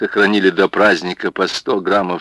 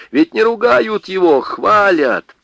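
reassuring; 12 semitones higher, 3 dB louder than usual. Acted. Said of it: "стали уговаривать их".

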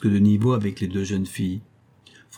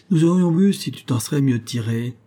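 a somewhat louder, higher comeback; piqued retort; 4 semitones higher, 4 dB louder than usual. Acted. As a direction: snap back, stung by the criticism. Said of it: "répliqua le chantre vexé". (réplique vexée, un peu plus forte)

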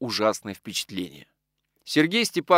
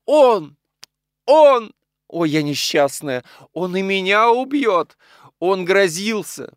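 high, loud cries stretched out slowly; horrified screaming; 8 semitones higher, 7 dB louder, slower than usual. A narrator's reading. Mistress fears she is next to die, screaming. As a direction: cry out in panic and dread. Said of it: "закричала".

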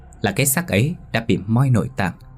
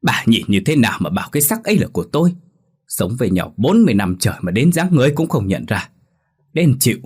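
irritated snap; 2 semitones higher, faster than usual. Acted. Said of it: "ông gắt".

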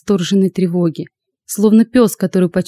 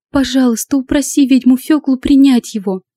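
put-on higher, begging girlish plea; pleading; 6 semitones higher than usual. A narrator's reading. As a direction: beg with a raised voice. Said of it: "взмолилась Лада".

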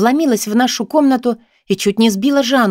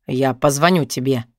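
put-on vague boyfriend; 6 semitones lower than usual. A narrator's reading. Boyfriend voiced low.

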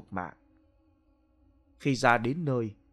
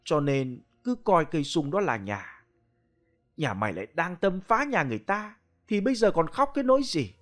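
stern pronouncement. Acted. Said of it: "phán một câu xanh sờn".

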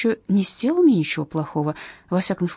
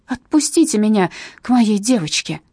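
desperate plea; 3 semitones higher, 5 dB louder than usual. Acted. Mother being dragged away.

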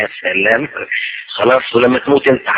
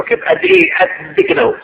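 very high, squeaky questioning; high mocking voice; mock incredulous. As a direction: pitch it up in disbelief. Acted dialogue sizing the pride.

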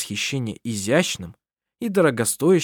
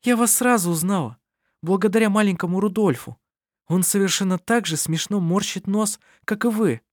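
much higher, amused character voice; lightly acted merriment, pitched up; laughing; 8 semitones higher than usual. A narrator's reading. Anna-Maria telling Sevet how she knew him, amused. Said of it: "засмеялась Анна-Мария".

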